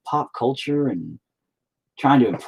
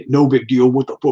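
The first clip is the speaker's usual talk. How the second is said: louder, mock-outraged disbelief; incredulous echo; 2 semitones higher, 5 dB louder than usual. Buddy echoes his friend's words, incredulous and louder. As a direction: throw it back in disbelief.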